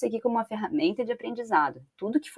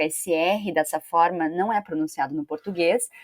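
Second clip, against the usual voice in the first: usual speaking voice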